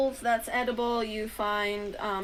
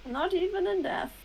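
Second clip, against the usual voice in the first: solemn confirmation; 8 semitones higher than usual. Acted. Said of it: "repeats for the player".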